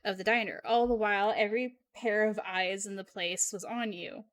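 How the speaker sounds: dramatic game narration; story narration. A narrator's reading. Narrator tells of slime fighting to escape, dramatic narration. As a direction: narrate the rising danger like a storybook.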